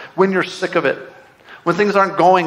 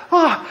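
high, panicked "ah"; retold yelp of alarm; freaked-out cry; 11 semitones higher than usual. Dad finding the flight missing, mock panicked cry. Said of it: "I'm, like, freaking out".

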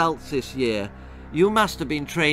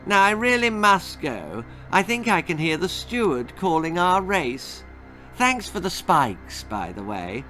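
gloating; 6 semitones higher than usual. A narrator's reading. The villain leaves gloating.

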